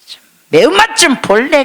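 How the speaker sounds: hammed-up scolding harangue; mock angry rebuke. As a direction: play a furious scold, tongue in cheek. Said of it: "이러지 않으셨어".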